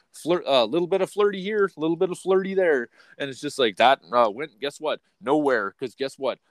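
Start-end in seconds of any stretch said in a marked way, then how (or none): 0.1-2.9 playful flirty lilt. Retold or imitated.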